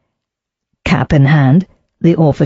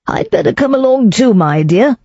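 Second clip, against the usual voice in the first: anxious; 7 semitones higher than usual. Acted. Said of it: "Sir Reginald said anxiously".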